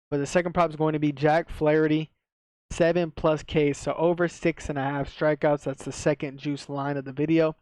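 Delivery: light retainer lisp; speaking with a retainer in; wearing a retainer. Real, not acted. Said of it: "so it might sound like I have a lisp".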